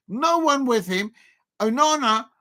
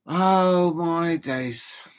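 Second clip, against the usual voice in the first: drawn-out oh my days; 3 semitones lower, much slower than usual. Real, not acted. Nervous during the match.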